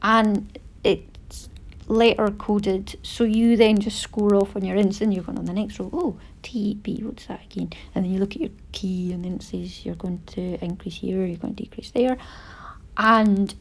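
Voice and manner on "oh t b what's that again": whispered puzzled self-talk; muttered aside. Retold or imitated. Knitter whispering to herself over a chart. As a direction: mutter it to yourself, squinting at the code.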